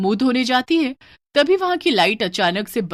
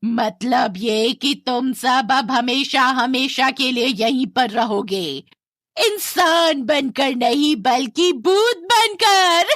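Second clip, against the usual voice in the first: slow, louder eerie threat rising much higher at the end; menacing ghost; 5 semitones higher, 5 dB louder, slower than usual. Acted. Ghost woman telling the family they will become ghosts, gloating. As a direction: savour each word of the doom.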